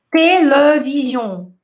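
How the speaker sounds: television said slowly, the e's neutral with no accent marks; pronunciation without accent. Shown as a demonstration. Professora mostra aos alunos a palavra sem acento, devagar. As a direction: show how télévision would sound unaccented. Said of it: "Quer ver? Ia ser assim".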